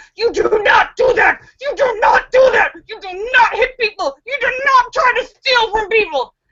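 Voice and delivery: high-pitched, scolding scream. Retelling how she yelled at the man on the ground, retelling screaming at him. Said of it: "I start screaming at him".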